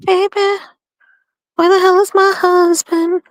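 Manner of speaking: high calling voice through the house. Real, not acted. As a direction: call out to find him. Calling out for husband.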